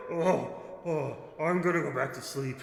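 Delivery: drowsy but menacing ancient ruler; ancient rasping undead king. Acted. Creature returns to sleep.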